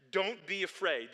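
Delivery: lightly voiced Joseph calming his brothers; Joseph reassuring. Voicing Joseph comforting his brothers.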